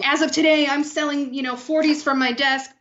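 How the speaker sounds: joining in the mock decree; mocking the boss. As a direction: announce it with mock authority. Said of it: "the other coworker responded".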